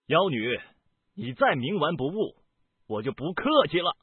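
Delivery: high, indignant ultimatum; stern threat. A narrator's reading. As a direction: warn the enemy with rising force. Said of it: "面色一沉".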